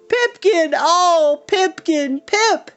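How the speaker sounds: ragged triumphant yelling; shout of triumph. Acted. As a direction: cheer him like a victory. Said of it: "a ragged shout of triumph".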